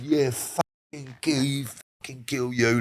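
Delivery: drawn-out mock threat; retold threat. Man threatening him and his missus in the car, retold drawn-out threat. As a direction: stretch the threat out slowly. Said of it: "like that, yeah?".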